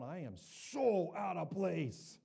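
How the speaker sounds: slow, drawn-out self-conscious mutter; awkward inner thought. Retold or imitated. Pastor in a bar, voicing his awkward thought slowly. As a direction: stretch it out like you feel out of place. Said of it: "and I'm going".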